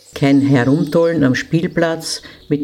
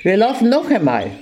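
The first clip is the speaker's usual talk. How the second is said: angry scolding; 6 semitones higher, faster than usual. Acted. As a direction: snap it out beside yourself with rage. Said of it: "Ganz außer sich vor Ärger schimpfte".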